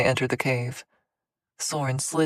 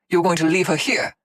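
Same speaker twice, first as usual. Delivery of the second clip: incredulous; 3 semitones higher, 6 dB louder than usual. A narrator's reading. Shocked at being left.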